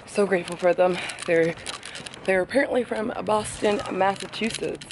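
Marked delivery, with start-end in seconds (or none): 2.2-4.9 a light Boston accent on apparently from Boston. Real, not acted. Telling viewers where the helpful family was from, light Boston accent. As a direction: slip into a hint of Boston accent. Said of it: "I said that in an accent".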